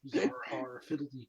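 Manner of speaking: lightly sung pirate jingle, pitched low; low, playful pirate ditty; mock pirate. Player joining in the pirate chant, mock pirate.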